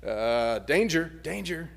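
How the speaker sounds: alarmed brain voice. Acted. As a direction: sound the alarm like a panicking brain. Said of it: "our brain begins to say".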